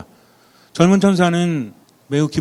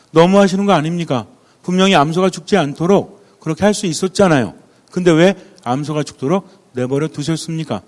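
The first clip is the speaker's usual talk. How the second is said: angry protest; 2 semitones higher, 4 dB louder than usual. Retold or imitated. Young angel confronts older angel over the dead cow, angry protest. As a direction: act out an upset reproach, easing slightly at the end. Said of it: "막 화를 냈습니다".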